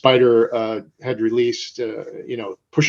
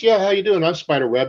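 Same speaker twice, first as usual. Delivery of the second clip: mock confident greeting, pitched up at the start; breezy self-introduction; 5 semitones higher than usual. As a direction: introduce yourself casually, as the man in charge. Retells introducing himself to customers.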